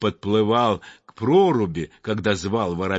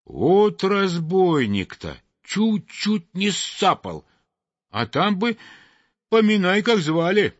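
chirpy sparrow voice; 7 semitones higher than usual. Acted. Sparrow complains after the chase.

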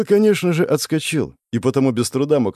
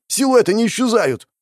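panicked shout; 12 semitones higher than usual. Acted. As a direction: shout the bad news in panic. Panicked scouts report.

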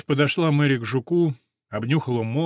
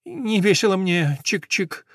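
sad sparrow; 5 semitones higher than usual. Acted. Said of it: "грустно сказал воробей".

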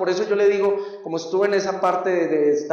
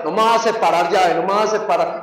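louder bravado; tough defiant shout; 4 dB louder than usual. Retold or imitated. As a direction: bluff a fighter, loud and daring. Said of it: "por fuera decía". (bravuconada en voz alta)

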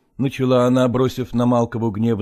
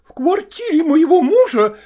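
much higher, louder outraged wail; wife howling in fury; 4 dB louder than usual. Acted. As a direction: scream it at her rival. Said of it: "завопила Копровская".

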